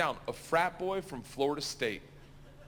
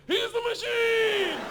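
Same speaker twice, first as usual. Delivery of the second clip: shouting; 6 dB louder, much slower than usual. Retold or imitated. Gangsters chanting back.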